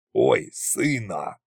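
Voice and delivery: slow, low, waving-away drawl; dismissive. A narrator's reading. Tsar waving away his son's plea, dismissive. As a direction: brush him off lazily. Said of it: "отмахнулся царь-батюшка".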